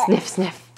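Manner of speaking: playful little sniff noises; bunny sniffing. Pretend. Parent answers for the bunny, sniffing. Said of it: "What does a bunny say?".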